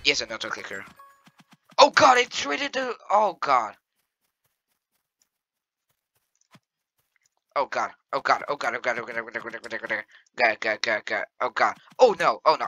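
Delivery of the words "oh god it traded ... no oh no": gibber in terror, fading; terrified gibbering. Real, not acted. Panic at near death.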